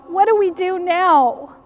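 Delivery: lost and desperate; distressed plea. Acted. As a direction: plead helplessly, lifting the voice. Mary lost without Jesus.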